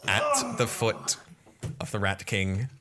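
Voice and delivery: brisk scene-setting narration; game master scene setting. Acted. Game master setting the scene for the party, brisk narration. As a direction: paint the dungeon for the players.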